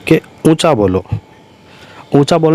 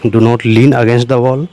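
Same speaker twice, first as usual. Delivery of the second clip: slow dictation; much slower than usual. Shown as a demonstration. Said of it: "teacher dictates English phrase".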